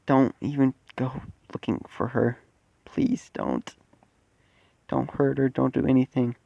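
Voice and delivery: soft, mildly frightened plea; quietly beg, a touch of fear; scared pleading. Acted. Midoriya begs the creature to spare her, soft scared pleading. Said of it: "gets scared again and says".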